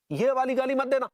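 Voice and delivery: angry warning. Acted. Warning a phone caller against that insult, angry. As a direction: warn the caller off sharply.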